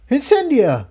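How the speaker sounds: high, called-out name in a lightly voiced shout; understated shout of a name; mock shout. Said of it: "Jigsaw and Tiptoe shouted together".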